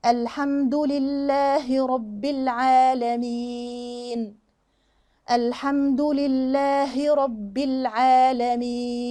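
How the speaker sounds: very slow recitation, sounding the h in "لله"; correct verse recitation. Shown as a demonstration. Teacher recites the verse properly, slow and measured. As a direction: draw out the long vowels, each letter clear. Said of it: "نقولها بقى الآية".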